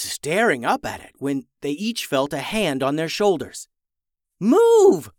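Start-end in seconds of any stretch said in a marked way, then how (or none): 4.4-5.1 loud, high, drawn-out yell. A narrator's reading. Tour guide to the boys as she pushes them away, yelled. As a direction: yell it out as an urgent command. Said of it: "yelled the tour guide".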